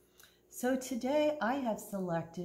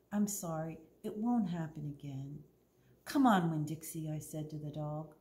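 clear, lively storytime reading voice; story narration; 3 semitones higher than usual. A narrator's reading. Librarian reads Winn-Dixie to the kids, storytelling. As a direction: read the story to the children.

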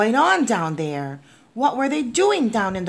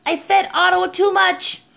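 put-on high, alarmed child's admission; distressed confession; 12 semitones higher, 3 dB louder than usual. A narrator's reading. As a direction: confess it in a panic. Boy confesses to Mister Carp.

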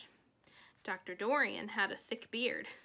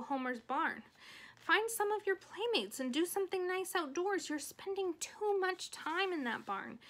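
lightly voiced coaxing mother, higher pitch; Fern's mother, concerned; 5 semitones higher than usual. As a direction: gently nag a child to go outdoors. Voices mother urging Fern outside.

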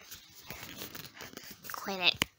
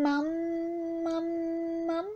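modelling a word; 4 semitones higher, much slower than usual. Shown as a demonstration.

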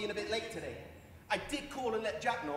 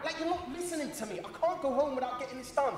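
raised voice; 2 semitones higher than usual. Acted. Claimant protests that clerk isn't listening, raised voice. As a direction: insist angrily that you be heard. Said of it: "Lower your voice".

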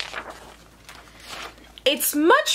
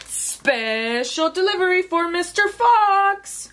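higher-pitched delivery call; 6 semitones higher than usual. Acted. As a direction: call out an announcement, pitch climbing. Calling out a delivery to Fox.

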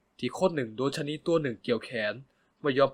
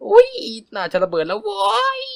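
high, loud, stretched-out squeal; flustered squeal; 10 dB louder, slower than usual. Acted. Narrator squeals, overwhelmed after the confession. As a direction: burst with giddy embarrassment.

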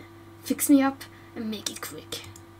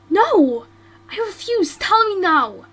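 louder firm demand, rising; insistent demand; 4 semitones higher, 6 dB louder, slower than usual. Acted. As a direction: refuse to leave without an answer. Insists on answer.

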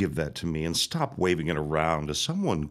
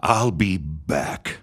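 slow vow; 4 dB louder, slower than usual. Acted. Villain leaving, vowing revenge.

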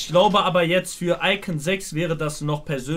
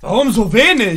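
louder, exasperated question; loud complaint; 3 semitones higher, 9 dB louder than usual. Real, not acted. Host protesting the short entry, loud complaint. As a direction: call it out loudly in protest.

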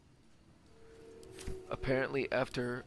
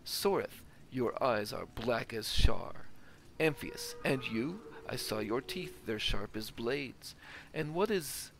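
theatrical, declaiming the verse with feeling; lightly acted stage reading of a tragic play; dramatic play reading. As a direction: read it like a stage tragedy, lines savoured. Reads a play aloud dramatically.

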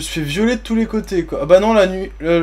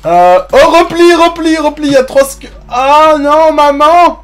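frantic retreat order; 8 semitones higher, 9 dB louder, slower than usual. Real, not acted. Fleeing monsters in panic.

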